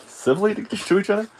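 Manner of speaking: high, laughing through the words. Pretend. Suspect mocking officers' temper tantrum, laughing. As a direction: squeeze the words out through giggles.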